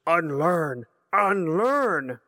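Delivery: lightly voiced Yoda, a touch raspy and odd; old Jedi master repeating the word gently; a hint of Yoda, slow and measured. A narrator's reading.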